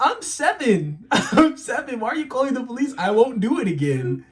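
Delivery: put-on panicked kid protest. Scared kid pleading with mom, high and panicked. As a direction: beg like a scared seven-year-old. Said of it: "I'm like".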